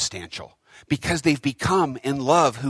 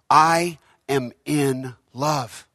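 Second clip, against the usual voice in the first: serene; much slower than usual. Acted. Lady's calm reply, slowed.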